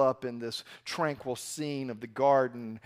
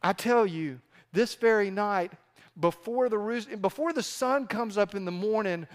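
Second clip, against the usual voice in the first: stern Jesus; 3 semitones higher than usual. Retold or imitated. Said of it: "and sternly says".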